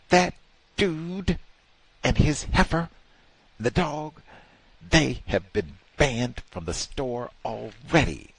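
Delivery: lightly voiced guard, high and worked up; indignant guard. Guard complaining about the banned pair, mildly high. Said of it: "he said".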